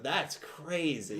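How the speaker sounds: put-on slow Brooklyn accent. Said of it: "in the Brooklyn accent".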